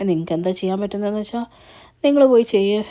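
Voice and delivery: daring them, ending loud; defiant challenge. Retold or imitated. Navya daring her in-laws to do their worst, defiant. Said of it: "വെല്ലുവിളിച്ചിട്ടൊക്കെ".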